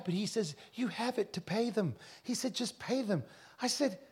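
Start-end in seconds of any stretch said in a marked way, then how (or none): 0.7-1.9 higher, softly imitated Indian accent. Indian fellow urges preacher to pay, imitated Indian accent. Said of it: "he's an Indian fellow". 2.5-3.2 higher, softly imitated Indian accent. Indian fellow urges preacher to pay, imitated Indian accent. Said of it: "he's an Indian fellow".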